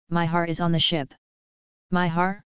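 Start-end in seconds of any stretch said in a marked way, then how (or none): 1.9-2.4 rising, puzzled echo; surprised question. Acted. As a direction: echo it back in mild surprise. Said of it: "Noir was stunned".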